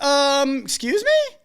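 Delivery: high, disbelieving mock bride; mock shocked bride. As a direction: act the stunned client, pitch jumping up. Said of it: "And they were like".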